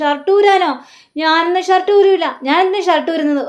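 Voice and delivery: put-on drunkenly balking at the order; defiant drunk.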